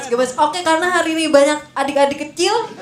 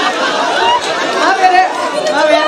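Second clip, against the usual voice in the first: high sweet voice; 10 semitones higher, much slower than usual. Pretend. High sweet apology to child.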